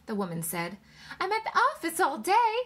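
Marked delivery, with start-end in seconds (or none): 1.2-2.5 high, louder aggrieved retort; protesting wife. A narrator's reading. Wife to husband about her working day, aggrieved. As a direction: argue back, pitched high and forceful. Wife argues back in quarrel.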